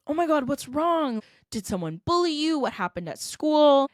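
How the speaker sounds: worried dad. Retold or imitated. Dad seeing his crying daughter come home, alarmed and worried. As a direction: rush to ask what's wrong, anxious.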